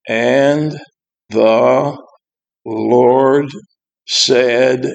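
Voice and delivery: word by word with long pauses; halting reading. Retold or imitated. Pastor imitating kids stumbling through Bible verse, halting. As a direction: struggle through each word like a poor reader. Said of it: "And they start reading".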